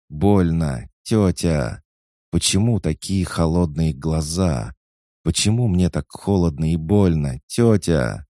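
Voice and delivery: high, loud pleading wail; anguished child cry. Acted. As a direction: cry out in pain and confusion. Child crying out in pain.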